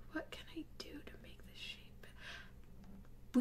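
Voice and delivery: breathy whispered repeat after a sigh; exasperated whisper. Real, not acted. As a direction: whisper it to yourself in defeat.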